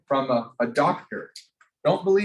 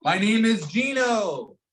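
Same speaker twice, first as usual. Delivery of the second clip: slow, higher, announced self-introduction; shouted name; 4 semitones higher than usual. Shown as a demonstration. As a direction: call your name out proudly, slowly. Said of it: "shout it out".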